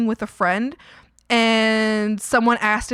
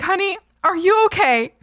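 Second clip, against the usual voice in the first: sweet service voice; 8 semitones higher, 5 dB louder than usual. Retold or imitated. Checking on the woman.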